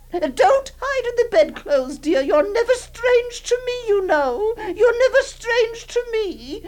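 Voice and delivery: put-on aunt soothing the hiding girl, tearful laugh; laughing through tears. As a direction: laugh and cry at once to comfort her.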